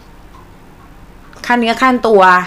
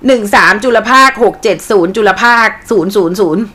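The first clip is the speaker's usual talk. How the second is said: mock AI number reading. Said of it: "เขาจะไม่อ่าน สิบสามล้าน".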